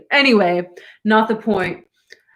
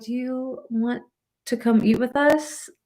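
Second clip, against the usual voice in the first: sweet voice; 6 dB quieter than usual. Retold or imitated. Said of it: "in the most sweet voice".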